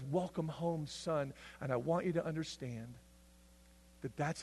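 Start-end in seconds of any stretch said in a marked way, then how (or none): 0.0-1.3 tender welcome. Retold or imitated. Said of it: "and says".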